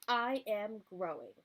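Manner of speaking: proud seed. Acted. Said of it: "said Seed proudly".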